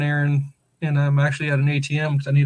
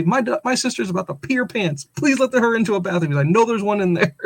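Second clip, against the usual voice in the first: higher-pitched mock plea; coaching someone to plead, pitched up; retold pleading; 4 semitones higher than usual. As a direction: urge it along like a mild plea. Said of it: "Plead with the people".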